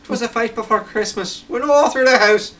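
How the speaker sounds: Scottish accent. Shown as a demonstration. Reciter tries the poem in a Scottish accent, loud and high. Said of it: "do it in my Scottish accent".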